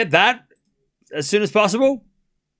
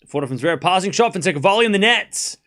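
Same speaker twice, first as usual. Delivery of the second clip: play-by-play. Real, not acted. Live tennis play-by-play.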